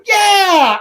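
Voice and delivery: high, loud imitated kid's yell; mock three-year-old shout; child's cheer. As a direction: cheer like a thrilled toddler. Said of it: "was going".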